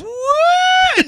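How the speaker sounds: high squeaky shocked what; a real stunned squeak; incredulous what. Real, not acted. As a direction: yelp it in disbelief. Mock outrage at the shooting.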